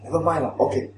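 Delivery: soft, low, offhand dismissal; mock easygoing shrug in the voice; casual brush-off. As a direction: wave it away lightly, as if it hardly matters. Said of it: "It is not".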